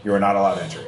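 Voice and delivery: a hint of a curt machine guard; lightly voiced robot, stressing not; sassy robot voice. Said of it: "Oh, it's a sassy robot voice".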